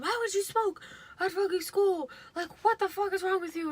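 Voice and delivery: high-pitched imitation of an outraged parent; mock scolding dad. Dad questioning kid about smoking at school, high mock scolding.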